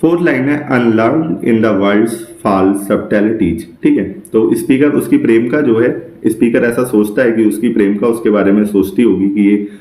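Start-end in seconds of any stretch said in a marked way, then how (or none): 0.7-3.6 slow poem recital. Shown as a demonstration. Teacher reading a Shakespeare sonnet line to students, very slowly. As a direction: read the verse very slowly, word by word.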